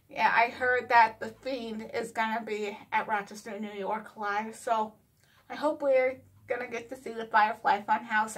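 speaking around dental retainers; lisping slightly with retainers in; talking with retainers. Real, not acted. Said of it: "if you're wondering why I'm talking like this".

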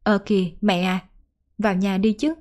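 lightly voiced worried daughter; hurried daughter. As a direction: anxiously hurry mom inside before the dew. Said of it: "Cô vội nói".

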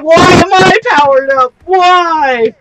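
mock exasperated yell. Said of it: "I'm just like".

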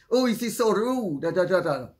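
retold complaint tailing into dismissive filler; mock complaining. Guest grumbling on at her host, mock indignant. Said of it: "she started to complain".

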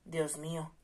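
lightly voiced helplessness; desperate. The marquis asks his friend for help, mildly desperate. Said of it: "con desesperación".

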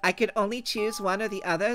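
put-on high, bright Valley Girl lilt. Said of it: "Valley Girl voice".

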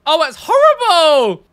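loud, high, drawn-out wail of disgust; slow, loud, appalled howl; horrified outcry. Real, not acted. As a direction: cry out in exaggerated horror. Recoiling from a cursed image.

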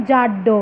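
জাড্ড said slowly and clearly, falling; জাড্ড enunciated like a teacher; sound demo. Shown as a demonstration. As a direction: spell out জাড্ড with a doubled ড sound. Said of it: "আমরা কি শব্দ পেলাম".

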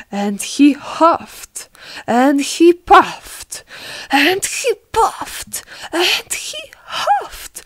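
slow phrases climbing from normal to very high pitch; mounting effort. A narrator's reading. Narrator telling the wolf's repeated huffing, mounting effort.

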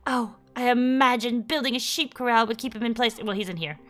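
a gentle grandmotherly figure, lightly played; voicing Alice. Reading Alice's dialogue aloud.

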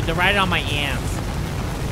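slow, stretched-out "ass"; slow mock replay of own words; imitating own odd delivery. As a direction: drag the line out in self-mockery. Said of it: "I don't even know why I said it like that".

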